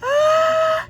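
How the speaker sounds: high loud gasp; duckling hearing his mommy; awed gasp. Acted. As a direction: gasp with wonder. Duckling amazed.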